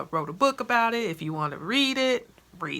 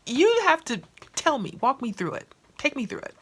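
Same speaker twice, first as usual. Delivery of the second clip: higher, louder excited plea; eager demand; 7 semitones higher, 6 dB louder than usual. Retold or imitated. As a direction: beg her for the whole story. Eager to hear friend's method.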